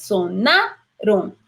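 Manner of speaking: "sonaron" said slowly with the stress on NA; stress on the penult. Shown as a demonstration. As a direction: lean on the second-to-last syllable of "sonaron". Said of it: "sonar lleva más acento en la penúltima". ("sonaron" lento, acento en la penúltima)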